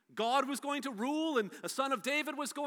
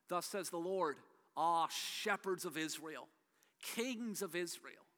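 scripture reading. Acted. Preacher reading Ezekiel to the congregation, measured and solemn. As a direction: read the prophet's words with weight.

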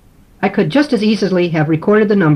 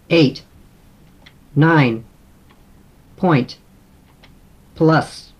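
dictating single words; 3 semitones lower, much slower than usual. Shown as a demonstration. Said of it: "Let me read in some numbers".

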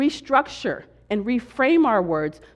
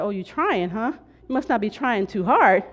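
teasing retort. Retold or imitated. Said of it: "And I said".

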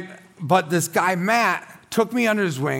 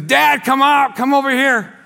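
higher, louder call across the room; calling to dad; 5 semitones higher, 3 dB louder than usual. Retold or imitated. Friend calling his dad over, raised voice. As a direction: call out to your father. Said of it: "And he says".

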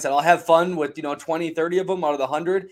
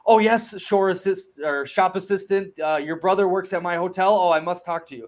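higher pitched, overly friendly sales pitch; mock fawning hustler; 3 semitones higher than usual. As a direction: ham up a smooth street seller. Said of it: "these guys are masters at selling".

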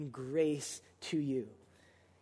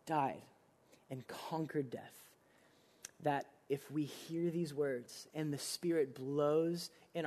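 reverent and hushed; 3 semitones lower, 5 dB quieter than usual. Real, not acted. Soft reverent slowed preaching.

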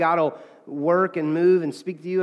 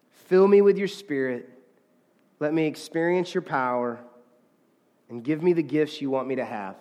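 earnest read-through of a prayer; reading a prayer aloud. Shown as a demonstration. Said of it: "I'm gonna read it to us".

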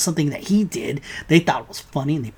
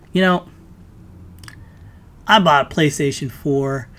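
usual speaking voice

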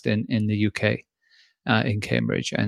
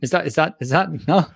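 a light, hammed-up German accent; 4 semitones higher than usual. A jokey German accent for the co-host on the show's birthday. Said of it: "you're allowed to do the German".

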